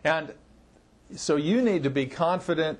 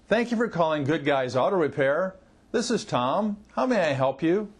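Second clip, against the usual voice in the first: pauses between thoughts. Shown as a demonstration. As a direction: give each part of the greeting its own space. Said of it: "Pauses between the thoughts, drawing it out".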